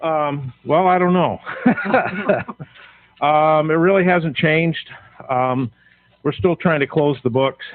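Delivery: breathless after running upstairs; out of breath. Real, not acted. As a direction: talk while catching your breath. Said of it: "sorry, I'm a little out of breath".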